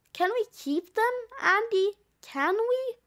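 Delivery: excitedly asking permission; eager pleading. Acted. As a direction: plead like a hopeful kid, rising at the end. Terry begs to keep the Santas.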